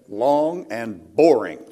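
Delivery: deadpan "Long and boring" breaking into a laugh; laughing punchline. Retold or imitated. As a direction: deliver the son's punchline with a laugh. Teen son's punchline, laugh heard.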